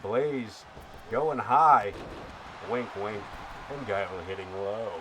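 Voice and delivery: hammed-up wrestling play-by-play announcer; radio voice. Streamer calls the match for viewer Ken in radio voice. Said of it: "We're gonna keep going with that radio voice for you".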